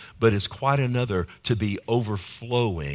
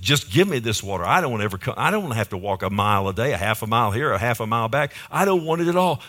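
impatient demand; 3 dB louder, much faster than usual. Acted. Woman at the well sick of the daily walk, impatient demand. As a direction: hurry through the complaint, then jump up loud on the last line. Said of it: "She's not thinking spiritual, is she?".

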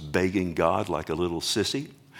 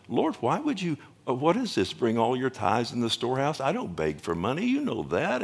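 pitched way up, puzzled and protesting; baffled plea to God; 4 semitones higher than usual. Retold or imitated. Pastor retelling his puzzled prayer to God, high and bewildered. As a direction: ask the Lord why, bewildered. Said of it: "And I just couldn't understand".

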